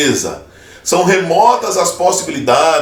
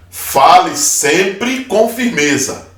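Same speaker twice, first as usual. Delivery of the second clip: firm advice; 4 semitones higher, slower than usual. Shown as a demonstration. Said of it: "A entonação da voz com que você fala".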